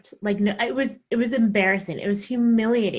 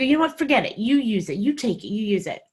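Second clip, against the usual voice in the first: angry; faster than usual. Retold or imitated. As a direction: throw it back at him. Furious retort.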